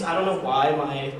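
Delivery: normal talking voice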